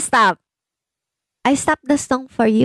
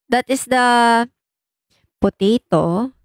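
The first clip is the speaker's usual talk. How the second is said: usual speaking voice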